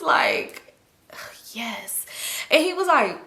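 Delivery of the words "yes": quiet yes. Retold or imitated. Agreeing with Joe.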